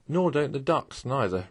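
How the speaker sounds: lightly cheerful retort. Acted. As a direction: toss it off with easy good humour. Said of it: "replied the Rat cheerfully".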